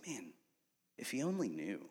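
very soft, private murmur to himself; hushed wistful reflection. Retold or imitated. Father watches his carefree son, hushed wistful aside. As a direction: drop right down, as if thinking aloud.

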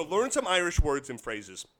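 reading in a put-on Irish accent; light attempt at Irish dialect. Shown as a demonstration. Host reading out a tip on Irish words, attempted Irish accent. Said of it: "gonna do this tip in, in as, as best of a Irish dialect".

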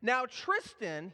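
slow, lightly stern warning; a hint of a strict father; stern dad scolding. Dad scolding his five-year-old, slow and mildly stern. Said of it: "I found myself scolding my son".

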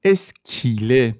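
اسکیله said slowly as es-ki-le, elided; careful demo pronunciation. Shown as a demonstration. Teacher to students, slowly showing اسکیله. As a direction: spell out اسکیله slowly, joining the sounds.

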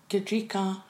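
"Gadrika" with the r moved before "ee"; tentative wrong guess, "Gadrika", stressed on "dri"; mistaken pronunciation. Shown as a demonstration. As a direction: misremember the surname as "Gadrika". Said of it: "that's not right".

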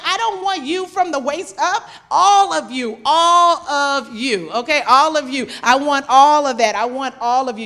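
loud, insistent all of you; God's loud demand. Acted. That is what God is like.

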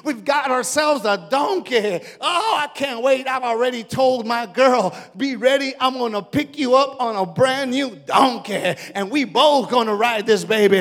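loud, eager, laughing at the end; a preacher playing a family's joy at full voice; excited cheering. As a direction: celebrate the new donkey out loud. Family cheering over new donkey.

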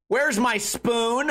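slow, high, entitled demand; entitled customer. Retold or imitated. Karen at the bar demanding her spoon, slow and entitled. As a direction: drag out the complaint like a Karen. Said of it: "She goes".

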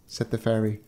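ordinary delivery, nothing marked

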